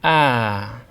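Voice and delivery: "Ah" sliding down; falling tone. Shown as a demonstration. Teacher demonstrating the falling tone, "Ah" descending. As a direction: slide "Ah" down the scale. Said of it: "Now slide down the scale".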